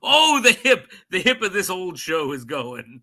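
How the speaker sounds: laughing through the joke. Real, not acted. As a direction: chuckle the words out. Joking about old age.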